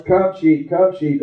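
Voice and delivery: mild mock holler. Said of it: "he had all kind of hollers".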